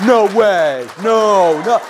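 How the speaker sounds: stunned, drawn-out disbelief; imitated amazement. Son handed free ice cream, mock amazed. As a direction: act out being blown away.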